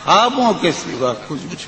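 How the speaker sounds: lilting, sung-through recitation of a ghazal; poetry recitation. Acted. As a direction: recite it like at a mushaira.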